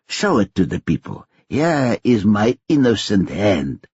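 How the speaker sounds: lightly voiced old pickpocket mentor; a hint of a seasoned crook teaching his apprentice; understated old mentor explaining the con; Uncle Solly. Uncle Solly coaching the trick.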